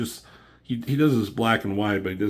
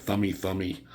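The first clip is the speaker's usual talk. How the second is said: sound effect; 5 dB quieter than usual. Retold or imitated. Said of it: "the sound effect".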